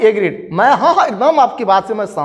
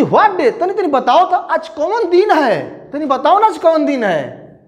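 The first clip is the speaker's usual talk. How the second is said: mock shout; 6 semitones higher than usual. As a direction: call out insistently, pitched high. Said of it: "है चिल्ला कह रहे हैं".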